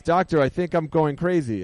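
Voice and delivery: joke patient. Acted. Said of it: "And he says".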